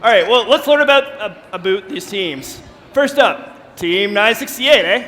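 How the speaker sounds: lightly put-on Canadian announcer; Canadian impression. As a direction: introduce the teams as a mock Canadian. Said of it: "do it in your best Canadian impression".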